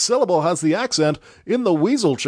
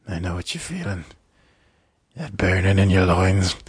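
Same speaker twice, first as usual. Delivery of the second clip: creepy low whisper; 8 semitones lower than usual. Retold or imitated. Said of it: "not speaking in a low whisper or being creepy".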